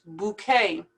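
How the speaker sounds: "Bouquet" as "boo-KAY", silent T; A-sound ending. Shown as a demonstration. Teacher matching it to buffet, AY ending. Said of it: "like an A or an A Y at the end".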